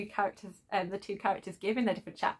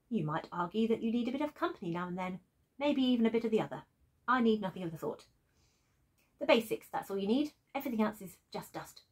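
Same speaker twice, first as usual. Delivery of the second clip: refined calm voice; 3 dB quieter than usual. Acted. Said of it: "this very kind of refined, calm routine".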